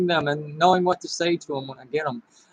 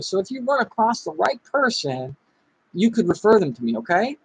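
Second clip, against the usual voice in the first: energetic script read; 3 semitones higher than usual. Shown as a demonstration. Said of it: "put emotion into your voice".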